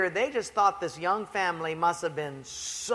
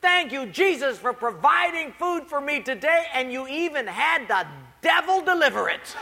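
put-on grateful old lady; 7 semitones higher, 4 dB louder than usual. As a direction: savour each word of thanks. Lady's punchline prayer.

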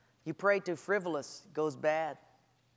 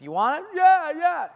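louder, exasperated giving in; impatient reply; 9 semitones higher, 9 dB louder than usual. Retold or imitated. God giving in to demanding believer, exasperated. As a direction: toss it back, fed up.

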